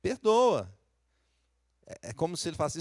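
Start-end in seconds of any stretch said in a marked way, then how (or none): 0.0-0.7 higher, louder cry of Senhor, perdoa; pleading for forgiveness. Acted. David begging God's pardon, raised pleading voice. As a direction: beg the Lord as David would. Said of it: "Ele tá pedindo perdão".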